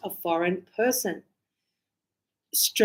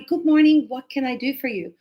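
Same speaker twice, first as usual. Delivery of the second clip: polite barista; 3 semitones higher, 3 dB louder than usual. Shown as a demonstration. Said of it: "it might be".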